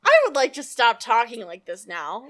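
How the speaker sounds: light cartoon character voice; hint of a cartoon voice. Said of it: "me sounding like a cartoon character".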